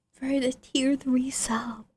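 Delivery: slow breathy whisper; slow whispered thanks. Real, not acted. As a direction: hush it out slowly. Thanking a subscriber on stream.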